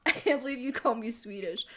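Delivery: lightly voiced indignant chat; mock offended voice. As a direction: pretend to be insulted. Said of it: "I didn't say you were Swedish".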